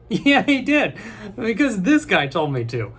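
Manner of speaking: high, loud mock outburst; acted reply. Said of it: "they're gonna be like".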